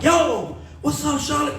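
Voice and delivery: mock emcee call to the crowd; hype shout. Hyping crowd from stage.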